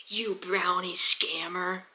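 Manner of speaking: mock seller spitting the insult, drawn out; imitating angry guy. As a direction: drag the insult out slowly at him. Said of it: "probably not that angrily".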